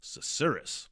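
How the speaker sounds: Susurrus said slowly as suh-SUR-us, every syllable clear; careful pronunciation. Shown as a demonstration. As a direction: sound out Susurrus. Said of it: "I kinda nailed it".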